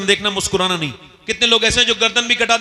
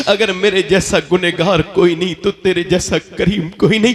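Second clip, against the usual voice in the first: weeping prayer. Acted. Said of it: "ऐसा रोया".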